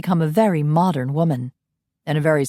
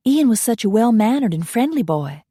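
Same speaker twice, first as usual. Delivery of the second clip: higher, fond Southern belle recollection; 5 semitones higher than usual. Acted. Coralie recalling young Ian, higher fond belle. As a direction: remember him like a fond old belle.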